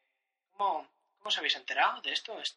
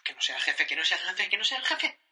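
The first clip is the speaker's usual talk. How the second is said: dreading; 3 semitones higher, 6 dB louder than usual. Acted. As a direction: pray it isn't the boss, rising panic. Worker dreads the boss calling.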